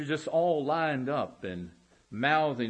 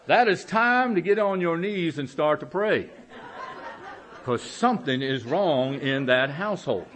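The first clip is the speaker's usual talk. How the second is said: laughing punchline; 3 semitones higher, 6 dB louder than usual. Real, not acted. Punchline of joke.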